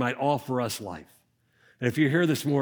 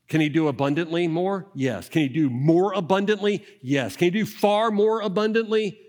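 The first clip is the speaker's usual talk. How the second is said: each question louder and higher, a steady climb; building emphasis; 4 semitones higher, 4 dB louder than usual. Shown as a demonstration. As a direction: build the question step by step up to "far more abundantly". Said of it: "You could not intensify that statement".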